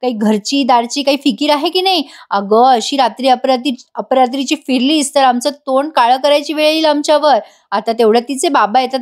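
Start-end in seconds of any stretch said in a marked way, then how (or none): 0.0-7.4 mock scolding, pitched only slightly up, no real shouting; retold scolding. Aunt tells off Gauri for coming home late, mock scolding. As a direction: act out a mild telling-off, stretching the opening address. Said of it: "ती गौरीवर खूप ओरडते".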